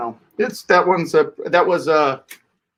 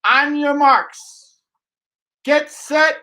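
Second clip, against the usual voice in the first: race starter; 7 semitones higher, 3 dB louder, slower than usual. Acted.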